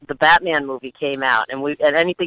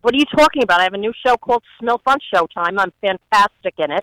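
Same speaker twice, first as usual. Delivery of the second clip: a hint of brash Rosie, higher; Rosie O'Donnell impression; 5 semitones higher, faster than usual. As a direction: play Rosie bragging about her show. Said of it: "Give us some Rosie".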